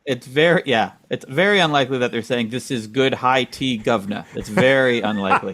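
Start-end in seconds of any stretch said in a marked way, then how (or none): 2.5-4.2 put-on British accent. Doubting friend quoting tea drinkers, light British accent. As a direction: quote it with a touch of British. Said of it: "speaking in a British accent going".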